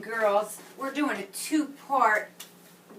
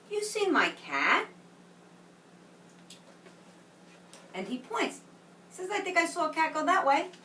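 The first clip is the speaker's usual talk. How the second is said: put-on reading to children. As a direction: read it like a picture book to a class. Reads story to children.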